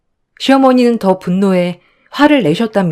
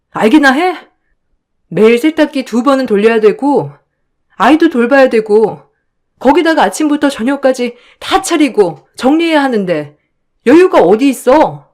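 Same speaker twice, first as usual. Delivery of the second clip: angry retort; 4 semitones higher than usual. Acted. Wife's heated quarrel with husband.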